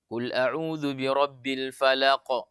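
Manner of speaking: slow recitation with light final bounce on "falaq"; small qalqalah. Shown as a demonstration. Teacher showing the wrong small-qalqalah reading. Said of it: "bukan kita mengatakan qalqalah sugro".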